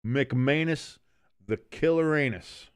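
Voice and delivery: McManus with the weight on the middle syllable, drawn out; mock announcer stress on McManus. Shown as a demonstration. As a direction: lean hard into McManus. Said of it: "You gotta say McManus".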